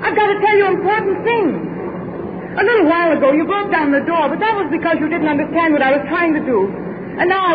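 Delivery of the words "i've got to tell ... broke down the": raised voice over the crowd; calling out. Acted. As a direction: call out to the workers. Addressing the crowd of workers.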